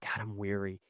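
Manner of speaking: soft, low exhausted murmur; weary sigh. Retold or imitated. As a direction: let the tiredness sink the words. Congregant sighing their weariness.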